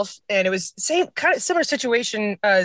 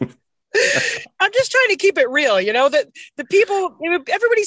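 laughing; 10 semitones higher, 4 dB louder than usual. Real, not acted. Laughing after host's joke.

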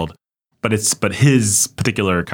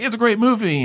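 they'd be like. Retold or imitated. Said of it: "they'd be like".

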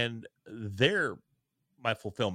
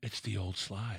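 dismayed murmur; 3 semitones lower, 5 dB quieter, slower than usual. Retold or imitated. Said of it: "I went".

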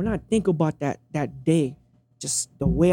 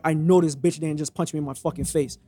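cold disbelief; 3 semitones lower, 4 dB quieter than usual. Retold or imitated. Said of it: "And I said it like this".

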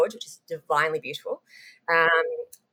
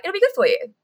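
mock producer; 12 semitones higher, 3 dB louder than usual. Mocking the producers' callous reply.

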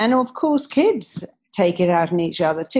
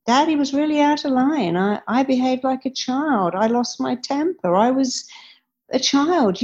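apologetic dad; 5 semitones higher than usual. Retold or imitated. Father apologizing to child.

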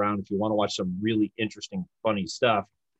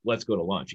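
"let's go to lunch" lower, on a downswing; command inflection; 3 semitones lower than usual. Shown as a demonstration. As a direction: state "let's go to lunch" as an order. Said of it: "I'm telling you".

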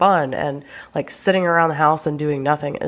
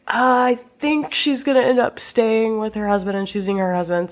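unsure guessing; 5 semitones higher than usual. Acted. Viewer guessing how the show will end, unsure. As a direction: hedge it like a hesitant guess.

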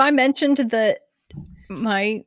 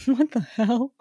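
ordinary talk, nothing marked

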